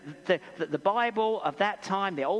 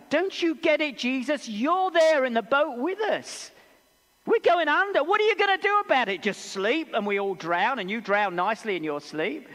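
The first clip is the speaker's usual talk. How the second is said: high, loud, rising desperate cry; desperate panic; 5 semitones higher, 5 dB louder than usual. Acted. Disciples yelling at sleeping Jesus in the sinking boat, desperate and loud. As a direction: plead louder and louder as they go under. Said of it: "That's the sound of desperation".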